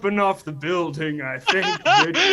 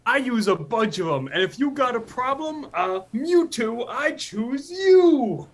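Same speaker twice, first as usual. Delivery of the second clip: put-on Cockney accent; 5 semitones higher than usual. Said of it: "talk in Cockney accents".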